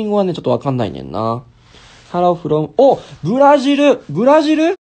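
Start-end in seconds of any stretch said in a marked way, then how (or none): 2.8-4.7 high, loud amazed cry; thrilled at the surprise; delighted shout of surprise. Real, not acted. Amazed at viewer from Brazil.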